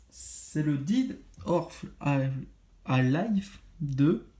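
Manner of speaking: slow, halting "Dead or Alive" in a French-accented English; hesitant English title. Real, not acted. Vlogger reading an English game title to viewers, slow and halting. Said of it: "désolé pour mon anglais encore une fois".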